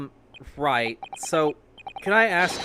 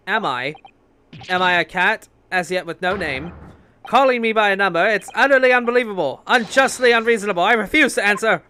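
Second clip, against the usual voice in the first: loud, higher, offended protest, speeding up; indignant outburst; 4 semitones higher, 7 dB louder than usual. Acted. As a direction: rant at the insult of a number. Prisoner protests being called a number.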